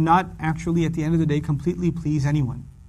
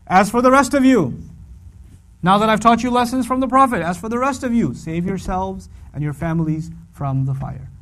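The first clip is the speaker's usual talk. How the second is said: declaring address; 2 semitones higher than usual. Retold or imitated. Verse addressing the believers, proclaiming. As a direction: announce it solemnly. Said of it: "the subject changed".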